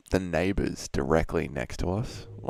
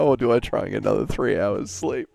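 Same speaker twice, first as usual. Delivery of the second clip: hammed-up loud inner voice, a bit higher; mock dilemma, louder; 4 semitones higher, 7 dB louder than usual. Streamer retelling his 3am dilemma, mock loud. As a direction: blurt the early-morning dilemma. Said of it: "and I'm like".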